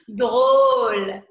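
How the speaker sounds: loud amused "Tu es drôle"; laughing after a laugh. Shown as a demonstration. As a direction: tease someone for being funny.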